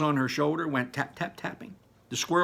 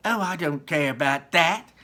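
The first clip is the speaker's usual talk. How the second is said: put-on spoiled girl; 5 semitones higher, 7 dB louder than usual. Spoiled girl answers her mother.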